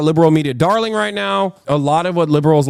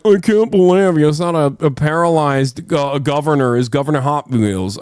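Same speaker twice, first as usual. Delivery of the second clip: mocking outrage. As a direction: parody a pearl-clutching critic. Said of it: "douchebags are gonna be like".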